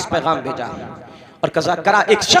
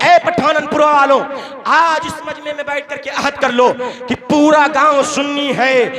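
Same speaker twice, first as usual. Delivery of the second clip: calling out to crowd; 5 semitones higher than usual. Real, not acted. Preacher calls out to villagers.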